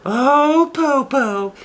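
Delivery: put-on very high, slow, savouring girl voice; teasing little girl. Shang taunts the hungry wolf, high and slow. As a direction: tease the wolf, drawing out how tasty it is. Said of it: "Shang said".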